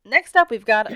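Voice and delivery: put-on announcer voice. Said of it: "do I have to do this voice?".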